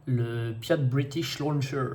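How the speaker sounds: a slow, hammed-up English accent on the name. Naming the rocket launcher for viewers in a playful English accent. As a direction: show off a mock English accent, word by word. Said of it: "Vous noterez mon bel accent anglais".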